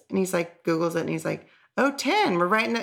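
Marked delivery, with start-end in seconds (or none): 1.8-2.8 imitated excitement. Partner reporting the episode count, imitated with mild excitement. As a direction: voice someone pleased at the news, pitched up. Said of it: "and he's, like, excited".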